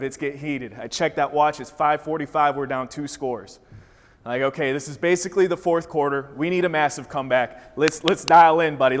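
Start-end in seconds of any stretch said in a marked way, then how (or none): 4.4-9.0 pumped-up pep talk. Retold or imitated. Kid's fourth-quarter pep talk.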